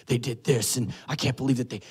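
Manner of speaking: breathy, exasperated venting; mock-upset venting in prayer; upset complaint. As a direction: act out someone airing a grievance to God. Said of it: "you're all upset".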